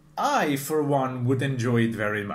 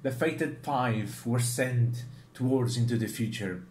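narrator voice. Retold or imitated. Vlogger imitates the anime narrator recapping the scene, lightly dramatic. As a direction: intone it like a story narrator, half-mock. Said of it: "the narrator goes like".

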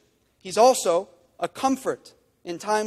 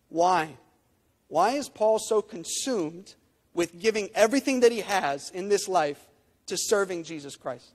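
ordinary delivery

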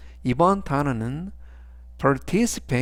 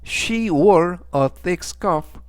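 she wore a thick scarf, very slow, a bit higher and louder; slow model sentence; 4 semitones higher, 3 dB louder, much slower than usual. Shown as a demonstration. Teacher reading example sentence slowly for class. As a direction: read it out word by word. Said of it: "즉 전체적 의미는".

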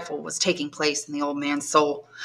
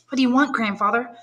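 put-on higher, anxious questioning girl; young woman pleading, raised pitch; young granddaughter; 6 semitones higher than usual. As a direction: coax answers from a mute grandfather. Valentine asks grandfather.

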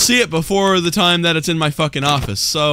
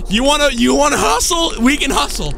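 higher, taunting dare; cocky challenge; 4 semitones higher than usual. Pretend. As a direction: puff up and taunt the enemy. Challenging the animatronic.

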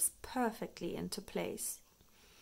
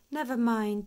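brightly; 4 semitones higher, 8 dB louder than usual. A narrator's reading. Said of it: "says Mummy Pig brightly".

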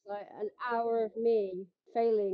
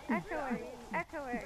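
playful mock echo, dying away; echo effect. Shown as a demonstration. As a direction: echoes the word like a cave. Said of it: "Sorry about the echoing".

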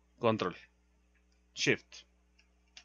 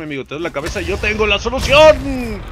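loud, high salesman hype; over-the-top hammed-up product pitch; infomercial pitchman; 7 semitones higher, 11 dB louder than usual. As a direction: sell the cure like a TV ad. Parodies a pitchman selling headache cure.

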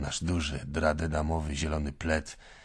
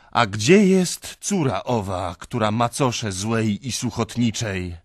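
voice of God; 5 semitones higher, 7 dB louder than usual. Acted. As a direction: summon the daughter like a judge. Voicing God at judgment. (uroczyście, głosem sędziego)

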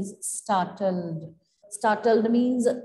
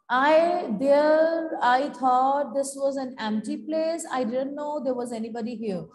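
stuttering in fright. Acted.

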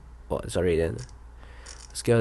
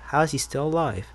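softer, higher, musing question; asking himself; 4 semitones higher, 4 dB quieter than usual. Real, not acted. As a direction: wonder it half to yourself. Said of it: "really asking myself".

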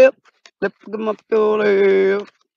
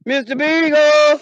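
drawn-out call; 5 semitones higher, slower than usual. Acted. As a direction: stretch the name out into the dark. Calling for the lost dog.

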